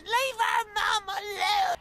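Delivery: put-on high shouting child; child's voice. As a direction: yell like a little kid.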